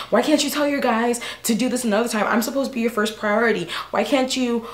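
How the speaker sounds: retold nagging tirade that tumbles into blahs; ranting on and on. Girlfriend demanding why his guys come first, ranting. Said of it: "I was going on and on and on".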